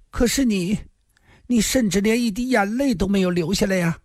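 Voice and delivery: high-pitched reproachful character voice; 林仙儿's voice. A narrator's reading. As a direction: voice a reproachful rival, pitched far above narration. (高声责问的角色腔)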